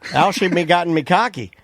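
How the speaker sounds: copycat try at a Newfie greeting; learner's Newfoundland lilt; imitated Newfoundland accent. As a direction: echo it in an attempted Newfoundland accent. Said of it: "I could do that".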